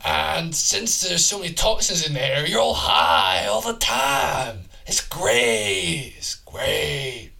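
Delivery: loosely held raspy dude voice; a rough-voiced man from the future, lightly put on; manly, raspy character voice. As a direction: rant along as a raspy manly oddball. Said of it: "I'll do his voice as well".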